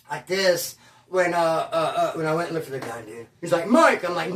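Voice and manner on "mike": high, loud mock blurt; retold blurt. Brother blaming someone for the missing gun, blurted. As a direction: imitate a brother blurting out a name.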